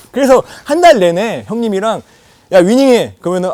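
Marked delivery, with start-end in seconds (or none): 2.5-3.2 loud, raised gamer command; mock-insistent shout; acted pushy demand. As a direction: order a reluctant junior to play. Acted demand to keep playing.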